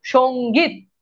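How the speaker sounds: সঙ্গীত drawn out in two parts, "shong-geet"; spelling demonstration. Shown as a demonstration. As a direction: sound out সঙ্গীত syllable by syllable, nasal ng held. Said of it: "কি হবে বলেন?".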